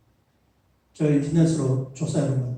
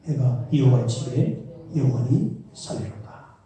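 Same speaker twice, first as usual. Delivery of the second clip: scripture reading; 4 dB louder than usual. Acted. Pastor reading Psalm 23 to the congregation, solemn reading. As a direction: read the psalm with reverence.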